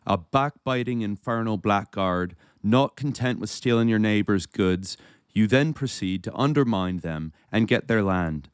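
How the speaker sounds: put-on a light Irish accent reading a threatening letter. Podcast host reading a letter aloud, in an Irish accent. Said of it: "I'll try to sound Irish here".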